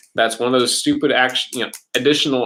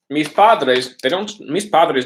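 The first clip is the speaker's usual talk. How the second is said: slow emphasis; 5 semitones higher, slower than usual. Shown as a demonstration. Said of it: "pointing out the subject".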